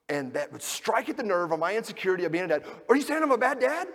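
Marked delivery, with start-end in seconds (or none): 2.9-3.9 high, loud indignant defensive rant; defensive outburst. Retold or imitated. Husband snapping back at wife over the calendar, high loud indignation. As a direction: fire back, wounded and defensive. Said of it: "get defensive and, and attack".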